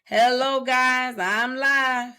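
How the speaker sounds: sing-song hellos to viewers; lightly voiced streamer hellos; mock livestream greeting. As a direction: imitate a streamer stuck on greetings. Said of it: "She never makes it past".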